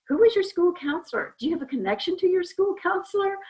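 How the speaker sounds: put-on high, bright question to a kid; friendly voice to a child. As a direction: ask it like greeting a young client. Asking kids about their counselor.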